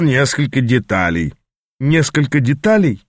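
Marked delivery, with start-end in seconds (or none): 1.8-3.0 incredulous echo. Acted. Apprentice echoing his mentor's words, mildly incredulous. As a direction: repeat «деталей» back, not believing it. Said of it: "недоверчиво переспросил я".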